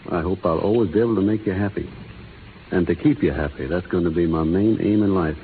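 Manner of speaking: low, tender vow; tender pledge. Acted. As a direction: pledge it lovingly, pitched low. Groom pledges love to bride.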